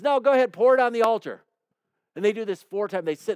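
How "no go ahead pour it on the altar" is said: emphatic command. Retold or imitated. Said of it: "Elijah says".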